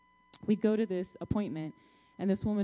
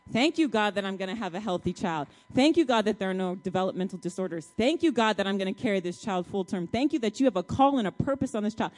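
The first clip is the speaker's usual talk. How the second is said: louder, impassioned declarations of thanks; fervent prayer; 4 dB louder than usual. Retold or imitated. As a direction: pour it out to God with conviction.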